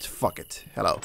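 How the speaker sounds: breathy whispered curse; muttered resignation under the breath. Real, not acted. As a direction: whisper it to yourself, bracing. Bracing to enter the house.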